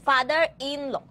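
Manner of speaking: "father in law" slowly, word by word; split into separate parts. Shown as a demonstration. Teacher repeating the compound noun for the class, "father in law" slowly divided into parts. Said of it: "তিনটা syllable আছে different different".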